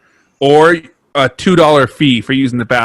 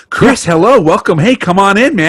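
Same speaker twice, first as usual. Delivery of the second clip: overly energetic boss; 5 semitones higher than usual. Retold or imitated. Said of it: "overly energetic with you too?".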